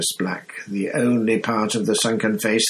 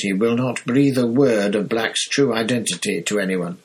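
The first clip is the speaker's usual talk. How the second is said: irritable Fudge. Acted. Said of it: "said an irritable Fudge".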